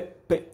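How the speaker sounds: the sound "P." alone, a short puff; just the sound of P; isolated p sound. Shown as a demonstration. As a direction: say "P." as the bare consonant sound, not the letter name. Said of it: "equivale ao fonema P".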